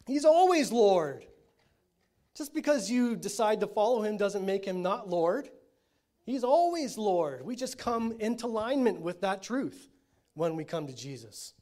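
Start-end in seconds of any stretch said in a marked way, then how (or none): 0.1-9.9 emphatic preaching; preaching at full force. Acted. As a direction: declare it, leaning on ALWAYS.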